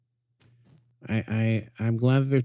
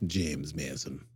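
mock English accent; 5 semitones lower, 7 dB quieter, slower than usual. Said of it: "Mine is not good".

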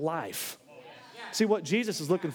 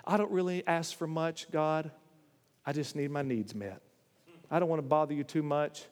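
small, softer pious whine; mock meek prayer; 4 semitones lower, 4 dB quieter than usual. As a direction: put on a falsely humble prayer voice. Mocking a meek self-centred prayer.

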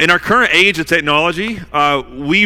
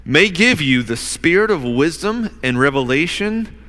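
measured public Bible reading, pausing between phrases; scripture reading. Real, not acted. Preacher reads Paul's prayer to the congregation, measured scripture reading. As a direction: read it out deliberately, weighting the key names.

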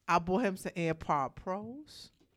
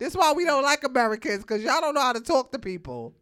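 louder, quicker scolding impression of a snooty French clerk; mock French official; 5 semitones higher, 8 dB louder, faster than usual. Host mocking how the French will scold her cohost, loud and fast. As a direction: play the rude Frenchman scolding an American. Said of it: "They gonna be like, "Sir".

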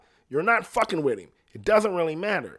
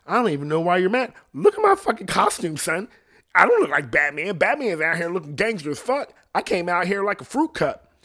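louder, higher swaggering superhero taunt, laughing near the end; cocky Robin; 4 semitones higher, 3 dB louder than usual. Retold or imitated. Robin taunting a bad guy about his costume, cocky and loud. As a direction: strut through it like you're untouchable. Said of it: "And he's like".

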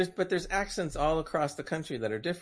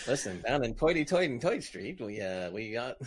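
hammed-up old New York accent; joking New York street talk; 3 semitones lower than usual. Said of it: "I'm not doing New York".

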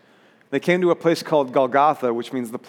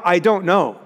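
short raised cry, falling at the end; emphatic admission, mildly cried out; 3 semitones higher, 4 dB louder than usual. Acted. Preacher voicing Jesus on the cross, crying out. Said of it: "Jesus found himself crying out".

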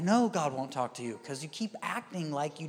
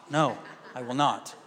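low, deadpan no; calm refusal; 6 semitones lower than usual. Retold or imitated. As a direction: imitate God firmly turning down a frantic plea. God calmly refuses the plea.

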